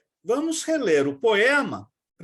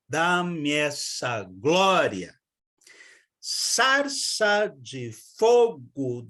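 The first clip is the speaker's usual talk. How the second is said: very slow, beat by beat verse; slow rhythmic recitation; scanning the rhythm; 3 semitones lower, much slower than usual. Shown as a demonstration. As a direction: stress FON in Fonte, SAR in Sarça, CIN in Cinza. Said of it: "nós temos".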